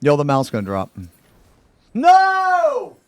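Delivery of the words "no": dismayed shout. Real, not acted. The mount is about to drop.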